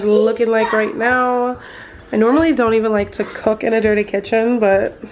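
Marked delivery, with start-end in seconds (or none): 2.1-5.0 sick voice, stuffy nose. Real, not acted. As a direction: talk through a blocked-up nose. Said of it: "You guys probably can hear it in my voice".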